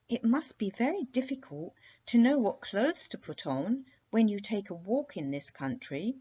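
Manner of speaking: princess remarking. Acted. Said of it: "remarked the princess".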